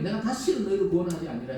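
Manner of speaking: God's stern verdict. Retold or imitated. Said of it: "하나님이".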